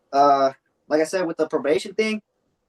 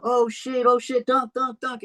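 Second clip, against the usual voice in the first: high, panicked oh shit, dropping to a whisper on dunk; startled high cry, then ducking and hushed; panicked yelp; 10 semitones higher, slower than usual. Retold or imitated. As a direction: yelp in fright as the bird dives. Ducking from a swooping bird.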